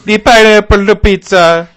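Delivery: high, loud, shouted rant; ranting like a furious anchor; angry newsman impression. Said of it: "He's like".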